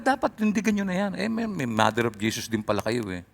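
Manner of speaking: ordinary talk, nothing marked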